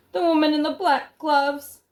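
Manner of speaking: high, loud anxious call; shouted. Acted. Boy in the tree shouting to grandmother below, high anxious call.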